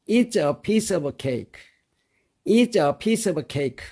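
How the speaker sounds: very slow, each word laid out for learners; slow model reading. Shown as a demonstration. Teacher to students, very slow model reading. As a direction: read it out slowly for students to copy. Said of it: "같이 외워두면 좋겠습니다".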